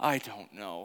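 put-on beaten-down, given-up, deflated tone. Recalling answering her about tomorrow, acting out a defeated tone. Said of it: "in this like defeated tone of voice".

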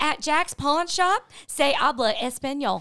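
put-on heavy, broad Southern accent, laid on thick. Recalling a local pawn shop ad and quoting the lady, thick Southern accent. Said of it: "She had this really thick Southern accent".

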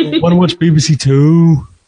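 put-on Newcastle accent. Friends guessing accents, one tries a line in a put-on Newcastle accent. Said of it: "if I put a Newcastle accent on".

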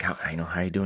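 hushed whisper. Back there, speaker recounts asking a nervous man how he's doing, retelling a whisper. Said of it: "I'm whispering".

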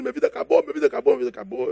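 put-on high sobbing lament, words repeated. Retelling how a man called the speaker aside, imitating a man crying. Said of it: "Aí ele tá chorando".

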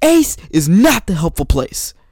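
play-acted, loud, high-pitched, enraged furious scream. Retelling how an angry customer screamed at a coworker: imitating a customer screaming. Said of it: "literally screams in Kevin's face".

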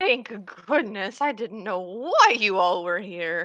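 cartoon horse character voice. Playing out a game scene, the speaker replies in character in a horse voice. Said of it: "Do you like my horse voice?".

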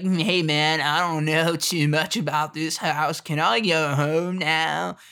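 put-on Southern California dude accent. Quoting the comic-relief character: imitating a california accent. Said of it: "this California vibe going on".

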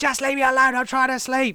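screaming, very high-pitched and shrill. Recounting being woken at 3 a.m., the speaker retells another person's scream. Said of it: "was screaming".

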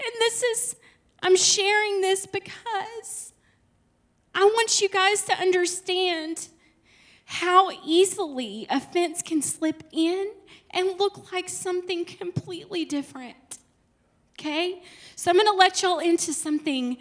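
emotional, choking up, slow and high-pitched. Speaker about to share something personal with the audience; choked up. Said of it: "I'm getting choked up".

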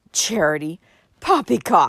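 with a snort. Uncle Benjamin answers Cousin Georgiana, snorted. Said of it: "snorted Uncle Benjamin".

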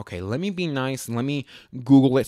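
normal talking voice

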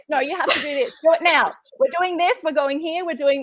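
mock bossy, urgent tone. Showing how own tone changes when turning organized: imitating a bossy urgent tone. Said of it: "The tone of voice then becomes".

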